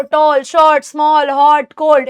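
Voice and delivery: one unbroken sound per word: टॉल, शॉर्ट, स्मॉल, हॉट, कोल्ड; single-syllable demo. Shown as a demonstration. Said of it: "एक बारी में बोल कर देखो".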